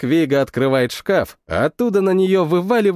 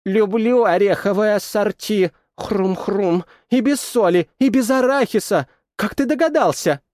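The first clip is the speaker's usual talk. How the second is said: talking through a mouthful, raised; mouth full; 5 semitones higher than usual. Acted. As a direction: chew and chat happily. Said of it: "с набитым ртом".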